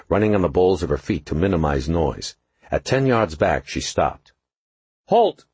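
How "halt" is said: sharp high command, much louder; commanding shout. A narrator's reading. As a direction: bark it out like a cop. She said, hand on her service piece.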